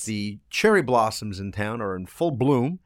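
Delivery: blocked nose from allergies; stuffed up. Real, not acted. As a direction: talk through a stuffy nose. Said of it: "I'm a little bit stuffed up".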